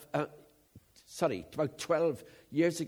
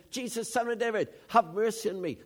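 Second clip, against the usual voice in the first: eager plea, a bit higher and louder; preacher voicing the blind beggar excitedly calling out, raised eager plea; excited cry; 4 semitones higher, 3 dB louder than usual. Lifted, eager call for mercy.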